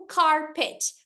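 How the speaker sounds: "carpet" slowly, car and pet apart; syllable by syllable. Shown as a demonstration. Teacher giving an example of syllables, "carpet" slowly split. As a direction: draw out "carpet" in two separate pieces. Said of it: "em uma sílaba".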